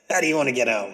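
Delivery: quick, muddled British-or-Australian question; attempted British accent. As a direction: rattle it off in a dodgy British accent. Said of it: "Am I Australian or British?".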